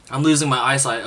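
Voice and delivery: strained by chili heat; talking while the spice burns; mouth burning from spicy food. Real, not acted. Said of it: "My mouth is burning".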